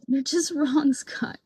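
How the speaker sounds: laughing through the word wrong. Real, not acted. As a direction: break into a laugh mid-verdict. Repeated verdict, now laughing.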